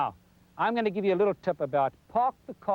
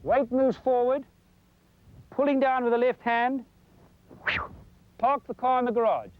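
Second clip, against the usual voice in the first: slowed and lifted, calling each phase; slow motion commentary; 4 semitones higher than usual. Shown as a demonstration. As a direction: narrate it in slow motion, step by step. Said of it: "Let me show you in slow motion".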